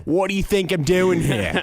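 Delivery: super sarcastic. Acted. Imitating a local answering a question in line, super sarcastic. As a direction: act out an exasperated, sarcastic local. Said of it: "super sarcastic".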